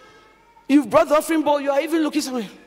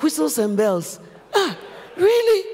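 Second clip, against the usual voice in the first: shocked disbelief; 2 semitones higher than usual. Retold or imitated. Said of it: "I was so shocked".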